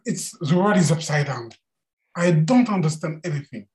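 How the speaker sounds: a demon who has had enough; fed-up Mara. Acted.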